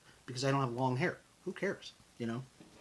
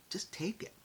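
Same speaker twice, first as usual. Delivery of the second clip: soft, higher, hushed nudge; whispered urging; 7 semitones higher, 6 dB quieter than usual. Real, not acted. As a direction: coax it gently in a whisper. Urging audience to accept compliments.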